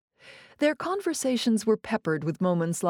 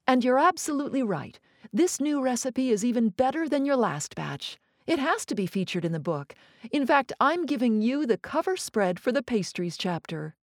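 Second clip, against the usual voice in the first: a lightly higher, quick enthusiastic verdict; Elizabeth praising; 5 semitones higher than usual. Acted. Critic telling chef his eclair wins the cover, lightly delighted. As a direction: deliver the good news with delight.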